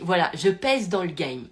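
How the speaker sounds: cool and unbothered, taking your time; very calm. Retold or imitated. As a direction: say it with total calm, unhurried. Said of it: "avec un calme".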